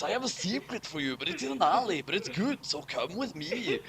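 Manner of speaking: soft, quick and secretive; secretive lure. Acted. Luring the gang to the alley, soft and secretive. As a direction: hush it like sharing a secret.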